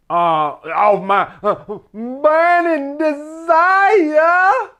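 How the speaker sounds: words dragged out slowly through laughter; laughing. Real, not acted. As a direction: crack up halfway through the phrase. Laughing at his own rant.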